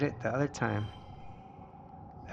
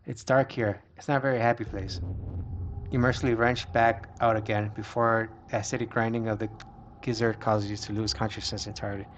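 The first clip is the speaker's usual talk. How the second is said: steady reading of an adventure tale; story narration. A narrator's reading. Player reading a monster fight aloud, story narration. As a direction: narrate the action evenly.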